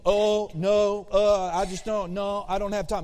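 hammed-up hesitant brush-off; mock flustered backpedaling. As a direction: back out hastily, playing up the reluctance. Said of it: "she started putting the brakes on me".

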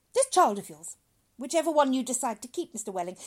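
loud, high oratory; grand doctor. Acted. Doctor promises father a bright future, grandly. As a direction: proclaim it to him expansively.

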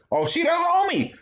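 very high defensive whine; whiny excuse. Retold or imitated. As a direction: plead it in a high voice. Excuse voiced in high pitch.

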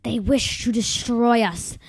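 slow, loud snarling shout. Acted. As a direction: snarl it like a soldier. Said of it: "the soldier shouted with a horrible, snarling".

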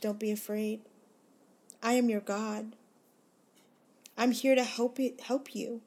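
fervent reassurance. Acted. Speaker voicing God telling her listener not to worry, building fervour. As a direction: swell into it as God's promise takes hold.

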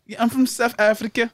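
attempted South African reply; mock South African; South African accent. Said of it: "South African".

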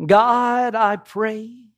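lofty, solemn prayer voice; dignified preacher voice. Pretend. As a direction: pray like a pompous preacher. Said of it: "in my most dignified preacher voice".

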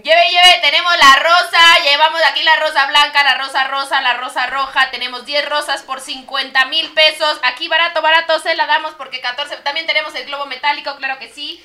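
loud, chanting street vendor pitch; hyped fairground barker. Acted. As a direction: sell roses to cars in traffic. Street vendor selling roses in traffic.

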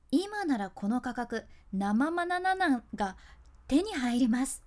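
slow, deliberate ad-style read; mock sales pitch. Shown as a demonstration. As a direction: sell it like a shopping channel host. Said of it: "言ってみましょう". (通販番組風にゆっくりと)

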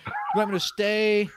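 replayed helpless confusion; retold exasperated questioning. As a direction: plead for an answer, quoting yourself. Acts his confused questioning of her.

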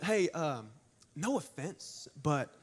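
softly, haltingly feigned tact; mock hesitant preamble. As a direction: ease in gingerly, imitating someone about to offend. Voicing an awkward preamble to offense.

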